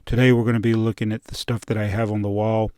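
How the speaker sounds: put-on podcast host intro voice; brisk, emphatic mock podcast intro. Host opens a Brick Czar video, put-on podcast voice. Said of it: "podcast voice".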